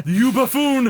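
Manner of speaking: high, loud and laughing; laughing mock insult. Player teasing friend over spelling, laughing mock insult. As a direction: scold loudly through laughter.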